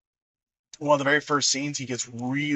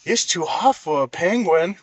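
put-on drunk Billy Madison; 3 semitones higher than usual. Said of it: "He's all".

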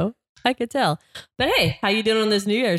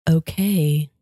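calming sweet voice; 2 semitones lower than usual. Pretend. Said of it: "Is that your calming, sweet voice".

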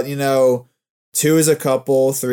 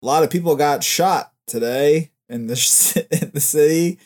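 news anchor voice. Pretend. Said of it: "sounds like a fucking news anchor".

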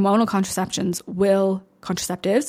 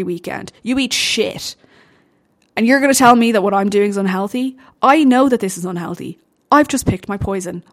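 heated, louder rant at critics; aggressive rant; 3 dB louder than usual. Real, not acted. Bodybuilder firing back at critics who call it unhealthy, heated. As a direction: push back hard, fed up. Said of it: "an aggressive note".

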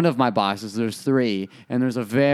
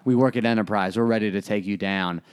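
imagined clerk taunt; 5 semitones lower than usual. Retold or imitated. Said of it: "they have that face like".

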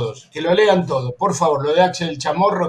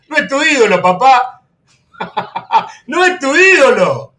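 burla entre risas; 6 semitones higher, 4 dB louder than usual. Real, not acted. Se burla del hincha rival.

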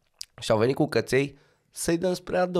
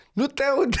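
imitated driver, can't hear; 10 semitones higher than usual. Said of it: "Și Porcișteanu".

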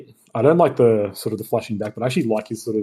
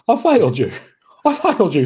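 a higher, louder butler's lament; Michael Caine impression; 8 semitones higher, 4 dB louder than usual. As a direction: do a mournful old butler, lightly. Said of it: "how good is Michael Caine?".

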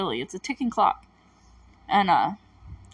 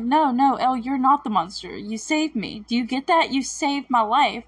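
raised, emphatic reassurance, lightly acted; earnest retold reassurance; 4 semitones higher than usual. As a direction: insist on it as the friend being quoted. Acts out friend reassuring her.

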